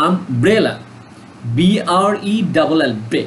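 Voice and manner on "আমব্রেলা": আমব্রেলা with BRE pushed harder; stress on BRE. Shown as a demonstration. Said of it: "কিসের উপর জোর দিচ্ছে".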